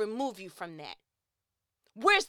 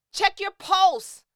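slow emphatic; 8 semitones higher, 10 dB louder, much slower than usual. Real, not acted. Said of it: "'cause I'm worked up".

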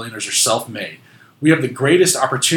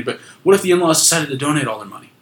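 usual speaking voice

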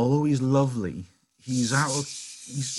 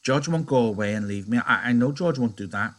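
miserably. Acted. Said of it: "he said miserably".

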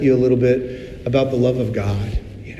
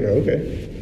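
breezy husband. Pretend.

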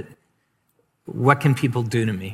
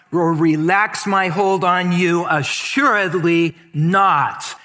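bold proclaiming reading; 4 semitones higher than usual. Shown as a demonstration. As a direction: proclaim it over the congregation. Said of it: "Read it one more time".

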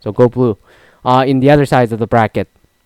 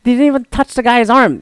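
retold fury; 10 semitones higher than usual. Fan ranting at the referee's call, in mock fury. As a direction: replay the outrage at a bad foul call. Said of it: "I was fucking furious".

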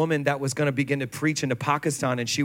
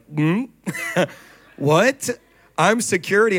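surprised, louder and higher disbelief; startled what; 3 semitones higher, 4 dB louder than usual. Retold or imitated. Security guy told to preach, baffled and surprised. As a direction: caught off guard, playing the baffled guard.

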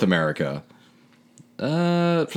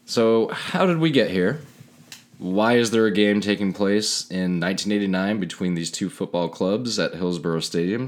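narrator voice. A narrator's reading. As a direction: set the scene like a documentary. Narrates the stadium history.

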